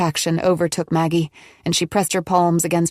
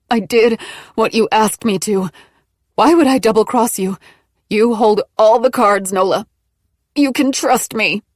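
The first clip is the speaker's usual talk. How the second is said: higher and louder, strained pleading; desperate, through gritted teeth; 4 semitones higher, 4 dB louder than usual. A narrator's reading. Maggie in labour pleads with Nola through gritted teeth. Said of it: "Maggie said through gritted teeth".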